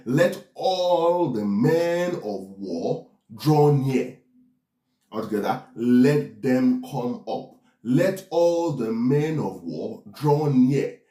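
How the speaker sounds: slow, drawn-out war summons; stately scriptural proclamation; declaimed summons. Acted. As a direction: proclaim it slowly, stretching each word.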